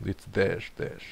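"Dej" with a zh J, as in Cluj; settling the pronunciation. Real, not acted. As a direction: repeat "Dej" with a hushing final J. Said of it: "how the J sound is pronounced".

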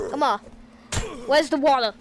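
playful mock-British accent; hammed-up British accent at normal volume. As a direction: put on your most British accent. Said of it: "do my most British accent".

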